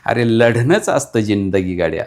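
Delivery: fiery declaimed verse, building to a call to fight; rally the listener to fight, line by line; rousing poem recital. Acted. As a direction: poet declaiming a battle poem to the audience.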